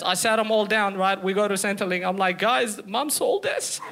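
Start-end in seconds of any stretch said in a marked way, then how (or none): 2.4-3.8 x0.5, very slow solemn news; telling brothers and sisters, slow and grave; grave announcement. Acted. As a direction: spell it out slowly like terrible news. Breaking news to siblings.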